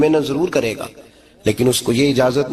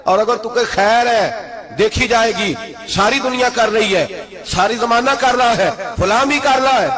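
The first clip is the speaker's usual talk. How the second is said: fiery preaching; 10 semitones higher than usual. Acted. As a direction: preach it out to the whole crowd. Opening appeal, raised preaching.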